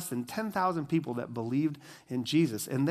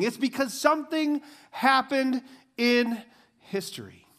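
full-force preaching; 7 semitones higher, 5 dB louder than usual. Acted. Pastor driving the verse home to the congregation, preaching at full force. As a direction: preach it out with conviction.

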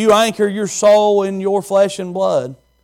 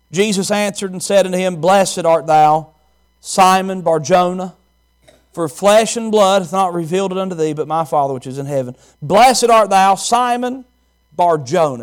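scripture reading. Acted. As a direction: read it out like holy writ. Reads scripture in sermon.

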